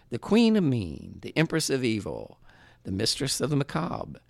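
booming ring announcer intro. Acted. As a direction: hype her up like a fight announcer. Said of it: "That was my announcer voice".

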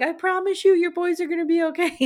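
high, loud, emotional promise; imagined tearful reassurance. Pretend. Imagining a call to her best friend about her boys, mock tearful. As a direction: act out promising through tears, pitch way up. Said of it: "I would be crying".

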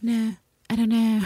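high-pitched, feeble mock uncertainty; mock weak reply. Ann Walker answering under questioning, imitated weakly. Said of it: "weekly, like".

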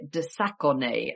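de Saconnet said slowly with a clumsy French accent; a self-mocking stab at French on de Saconnet; terrible French accent. Shown as a demonstration. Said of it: "excuse my terrible French accent".

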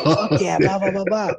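mock celebration. Celebrating free pizza.

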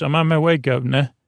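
half-hearted Cockney imitation; mock Cockney. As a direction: retell it with a hint of Cockney.

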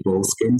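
Boleskine said as two-part BOLE-skin; English-style pronunciation. Shown as a demonstration. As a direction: say Boleskine like "bowl-skin", no middle syllable. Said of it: "many ways I have seen Boleskine pronounced".

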